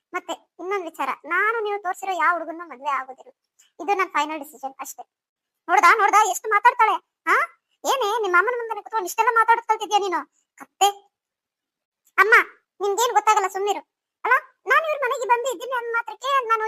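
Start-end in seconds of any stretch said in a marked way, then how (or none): 5.7-10.9 scolding mother. Acted. Mother scolds defiant daughter.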